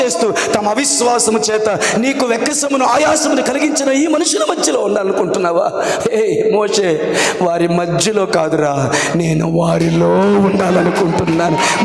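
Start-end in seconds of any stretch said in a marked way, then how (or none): 6.1-11.8 low, slow voice of God answering Moses. Acted. Preacher voices God answering Moses, low and slow. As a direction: lower and slow it down, solemn as God.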